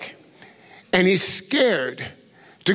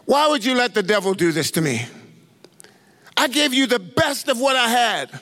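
with an attitude; 4 semitones higher than usual. Retold or imitated. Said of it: "like, with an attitude".

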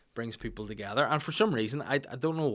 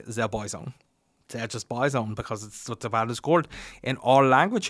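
mock German-accented English. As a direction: imitate a German explaining patiently. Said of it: "And he was like".

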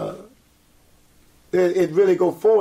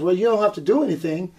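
laughing; 2 semitones higher than usual. Real, not acted. Retelling her amused reply.

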